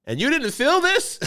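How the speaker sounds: high, slow disbelieving doctor; doctor's astonished voice. Retold or imitated. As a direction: ask it like a stunned doctor. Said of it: "he's just like".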